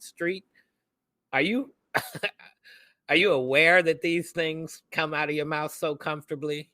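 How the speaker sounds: incredulous reply. Acted. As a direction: question it as if astonished. Mock reply to police remark.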